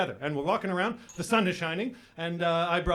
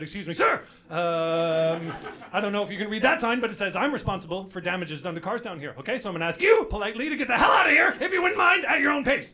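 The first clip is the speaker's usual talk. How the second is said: mock polite. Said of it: "I said".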